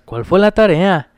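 lento y cantadito, imitando Guanajuato; cántalo despacio como en Guanajuato; acento de Guanajuato. Retold or imitated. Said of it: "Me decían así". (imitando el acento cantadito de Guanajuato)

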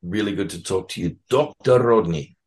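playful, slightly bad South African accent. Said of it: "Good South African accent".

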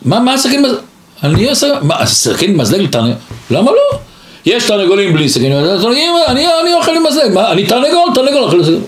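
high, quick, mock-offended protest; the sage acting the rooster to the prince, high and offended; indignant rooster. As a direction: act out with surprise. Sage defends fork and knife.

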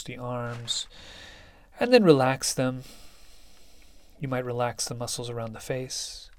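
unhurried meditation guide with long pauses; guided meditation. Acted. Teacher settling listeners into meditation, calm, spacious guiding voice. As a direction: lead them gently through it, leaving space between phrases.

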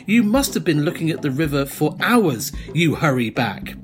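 steady storyteller voice setting the jungle scene; game master reading the adventure text; scene narration. Acted. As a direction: paint the scene for the players.

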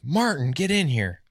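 imitated manager's call. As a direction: call him into your office like a coach. Manager calls player into office.

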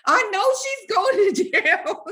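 very high panicked wail, played up; freaking-out mom, imitated. Imitating her mom on the phone, freaking out in high pitch. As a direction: panic in a squealing high voice, a laugh creeping in. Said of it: "she's freaking out".

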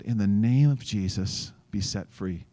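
slow, calm prayer of authority; calm command. Retold or imitated. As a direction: say it steadily, without shouting. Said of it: "Just calmly and just use my name".

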